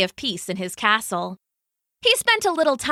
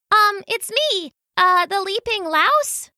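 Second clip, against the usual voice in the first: timid louse; 10 semitones higher than usual. Acted. Louse voice held in dialogue.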